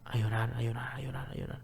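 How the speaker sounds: repeats slide into a breathy whisper and die away; fading to a whisper. Real, not acted. Recalling crying in Bible study.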